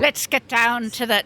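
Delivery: a loose stab at Cockney; Cockney accent. Acted. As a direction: have a go at a Cockney English teacher. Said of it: "she had a Cockney accent".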